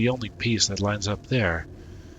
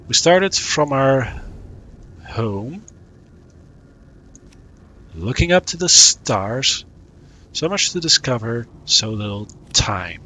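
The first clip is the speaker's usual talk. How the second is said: measured recital with long pauses; verse reading. Acted. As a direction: read it out line by line, lingering between phrases. Reads out game verse.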